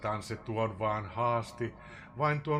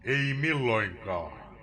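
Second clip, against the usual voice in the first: raven's cry; 5 dB louder, slower than usual. Acted.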